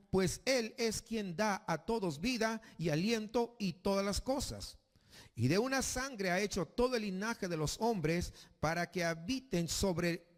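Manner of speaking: reading scripture slowly and solemnly; lectura bíblica. Acted. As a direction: read the verse with measured gravity. Lectura de Hechos 17. (lectura solemne y pausada de la Escritura)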